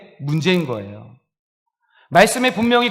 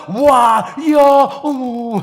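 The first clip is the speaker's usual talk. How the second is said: cued audience gasps; 6 semitones higher, 6 dB louder, much slower than usual. Retold or imitated. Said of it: "이렇게 감탄하는 거예요".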